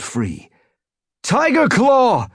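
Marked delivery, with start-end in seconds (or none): 1.2-2.3 high, loud, drawn-out cry; desperate slow shouted call; yowl. A narrator's reading. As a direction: yowl the name across a battle. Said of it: "The yowl came from a warrior".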